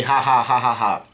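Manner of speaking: evenly spoken fake laugh; read-out mock laugh. Long legs laughing at them, spoken mock laugh. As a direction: recite the laugh syllable by syllable. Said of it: "long legs are laughing".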